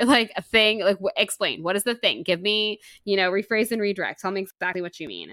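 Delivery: loud, insistent retold questioning; insistent demand. He pushes her to explain the vague thing, insistent. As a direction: press for an answer, raising the volume.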